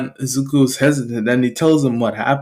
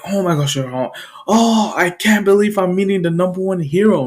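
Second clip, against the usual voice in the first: higher-pitched, mildly gushing; starstruck fanboy; 4 semitones higher, faster than usual. Acted. Fan meeting the number one hero, starstruck. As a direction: gush like a fan meeting an idol. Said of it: "starting to kind of fanboy".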